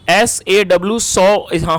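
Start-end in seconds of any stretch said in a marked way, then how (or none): 1.0-1.4 "सॉ" with a rounded "aw" vowel; correctly pronounced "saw". Shown as a demonstration. Teacher repeating the spelled word for learners, "सॉ" pronounced with "aw". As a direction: say "सॉ" with "aw", never "aa". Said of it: "हम इसे सॉ पढ़ेंगे".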